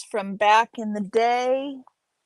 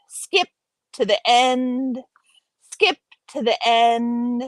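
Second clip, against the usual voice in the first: mock-impatient command; 2 semitones higher, 5 dB louder than usual. Reader jokes about skipping to the conclusion, in a mock-impatient command. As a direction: play at hurrying someone along, punchy and raised.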